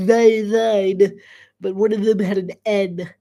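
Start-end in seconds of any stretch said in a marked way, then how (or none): 0.1-1.2 nasal voice, mock Olde English. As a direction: pinch the words through the nose. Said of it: "my nasally voice of".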